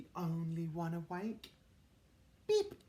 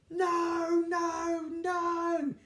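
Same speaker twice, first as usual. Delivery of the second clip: 1 mock scolding; 10 semitones higher, 5 dB louder, much slower than usual. Telling noisy birds off.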